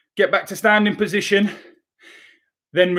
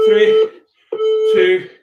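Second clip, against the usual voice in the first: loud, high countdown; shouted countdown; 4 dB louder, much slower than usual. Real, not acted. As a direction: shout the last seconds to the class. Counting down the last seconds.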